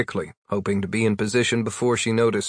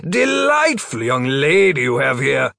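reassuring; 4 semitones higher, 4 dB louder, slower than usual. A narrator's reading. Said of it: "smiled reassuringly and said".

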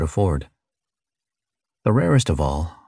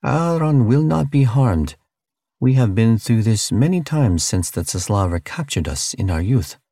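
gentle alien voice; 4 semitones higher than usual. Acted. Utaki calming Charlie.

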